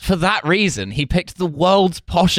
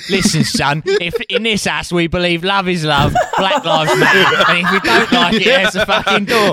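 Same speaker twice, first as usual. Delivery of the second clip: liberal hard man; 2 semitones higher than usual. Retold or imitated. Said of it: "liberal hard man".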